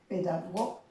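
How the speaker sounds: "Pedago" stopped on the stressed GO; tonic syllable shown. Shown as a demonstration. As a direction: say "Pedago", cutting the word after GO. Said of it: "viene a ser la sílaba tónica".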